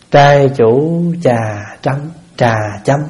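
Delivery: ritual call. Shown as a demonstration. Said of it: "mỗi lần mà nói, ờ, trai chủ".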